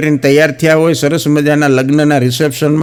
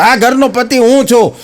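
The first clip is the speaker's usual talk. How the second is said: mock furious husband laying down the law; angry husband yelling; 10 semitones higher than usual. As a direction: bellow orders at his wife. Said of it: "જોર જોરથી ગુસ્સોમાં આમ રાયડું પાડી પાડીને".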